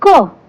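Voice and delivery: "क" as a k sound with short vowel; letter sound demo. Shown as a demonstration. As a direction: sound out "क" for learners. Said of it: "K की sound होती है".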